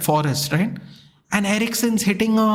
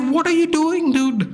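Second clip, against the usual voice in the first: much higher, exasperated retold yell; losing it; 9 semitones higher than usual. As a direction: shout in disbelief at the player. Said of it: "I absolutely lose it".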